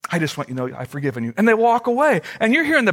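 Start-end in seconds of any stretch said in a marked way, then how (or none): 0.1-1.3 smug. Retold or imitated. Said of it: "they kind of smugly say".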